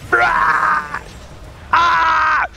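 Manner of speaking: loud high monster wail; hammed-up monster blah; monster roar. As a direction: howl like a dying spirit. Dying hero roleplay.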